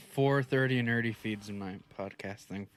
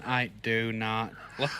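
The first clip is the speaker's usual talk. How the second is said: slow, lower mock robot voice; 4 semitones lower, slower than usual. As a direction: imitate an edited-in machine voice. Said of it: "you put the robot voice in".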